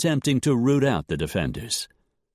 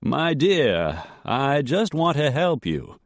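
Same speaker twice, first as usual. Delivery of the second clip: calm controlled; 6 semitones higher, slower than usual. A narrator's reading. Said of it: "calm, carefully controlled voice".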